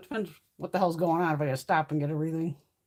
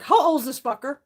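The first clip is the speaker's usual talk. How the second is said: indignant; 7 semitones higher, 6 dB louder than usual. Retold or imitated. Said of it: "'cause I was like".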